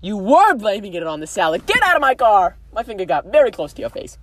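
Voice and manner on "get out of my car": loud, high pretend kick-out; mock outrage. Throwing the co-host out over the salad, mock outrage. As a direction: order them out in playful fury.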